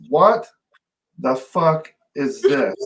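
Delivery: slow, pointed demand with a pause after the first word; retold indignant grandmother. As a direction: imitate a grandmother's stunned outrage, word by word. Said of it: "her exact words".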